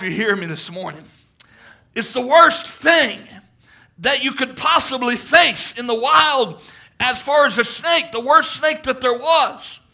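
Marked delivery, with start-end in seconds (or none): 1.9-9.8 slow, loud, leaning on worst; preaching at full force. Real, not acted. Preacher urging the congregation, loud slow preaching. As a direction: preach it out, hitting every worst.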